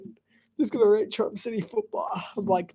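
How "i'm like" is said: ordinary delivery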